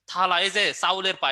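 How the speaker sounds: slowed teaching read of চাউলের পা as a memory trick; teacher slowly saying চাউলের পা so students remember it; slow mnemonic pronunciation. Shown as a demonstration. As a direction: say চাউলের পা slowly, each word distinct. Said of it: "কিভাবে উচ্চারণ করতে বলছিলাম".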